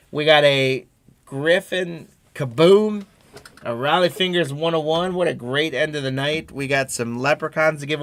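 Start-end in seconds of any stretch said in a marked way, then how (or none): 0.1-6.5 excited. Real, not acted. Announcing big hits in break.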